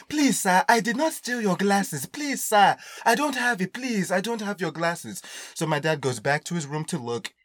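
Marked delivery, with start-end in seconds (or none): 0.1-5.2 high, strained pleading with sir; pleading restraint. Retold or imitated. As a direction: hold back anger while begging him. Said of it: "trying to hold himself back".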